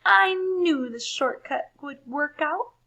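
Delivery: proud crowing. A narrator's reading. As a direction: gloat over the shortcut. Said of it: "Wendell crowed".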